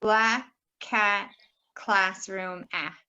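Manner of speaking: deliberate "black cat, classroom", then "ah" alone; matching vowel drill. Shown as a demonstration. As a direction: link the short a through "black cat, classroom". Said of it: "that's gonna be black cat".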